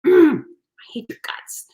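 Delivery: slow, whispered growl of mock fury; groan, then hiss it out slowly as pretend loathing. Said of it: "So in my fury".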